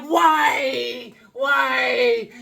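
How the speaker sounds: high, loud, disbelieving cry; incredulous cry. Retold or imitated. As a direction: shout it up in happy shock. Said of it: "I was like".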